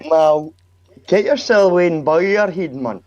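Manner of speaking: mock scolding shout. Scolding a chatter.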